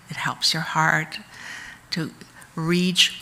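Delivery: a brief soft whisper. Acted. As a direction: let the words fall to a whisper. Describing the calm of mantra.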